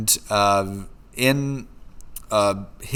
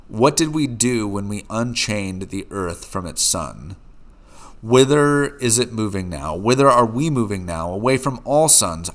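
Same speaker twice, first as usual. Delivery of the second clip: madman's speech, lightly voiced. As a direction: read it as a lightly heated prophecy. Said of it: "He says".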